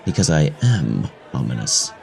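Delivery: low, ominous retort. Acted. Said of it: "I sound ominous".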